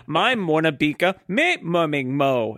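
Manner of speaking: slow made-up gibberish language; fake foreign language. Shown as a demonstration. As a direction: kid inventing nonsense language. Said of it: "I'm going to speak a fake language now".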